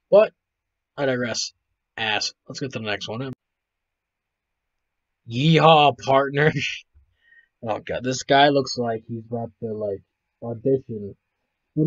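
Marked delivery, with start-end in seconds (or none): 5.3-6.5 hammed-up cowboy holler; mock cowboy. Host greeting a man in cowboy gear, mock cowboy. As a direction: call it out like a cartoon cowboy.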